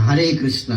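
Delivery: হরে said as hare with an open a; foreign hare. Retold or imitated. Preacher shows how foreigners say hare krishna. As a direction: mimic the foreign hare sound. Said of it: "হরে কৃষ্ণ বলতে পারে না".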